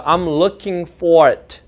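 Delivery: "I'm looking for it" drawn out word by word; slow word-by-word model. Shown as a demonstration. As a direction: say "I'm looking for it" very slowly, each word separate. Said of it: "마지막 두 단어였어요".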